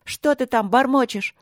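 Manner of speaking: high, angry yell. A narrator's reading. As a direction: shout him down. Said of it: "Арина орала всё громче".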